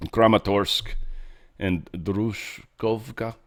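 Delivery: playful attempt at a Slavic accent; put-on Slavic accent. Shown as a demonstration. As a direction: savour the place names in a Slavic accent. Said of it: "just say it in an accent".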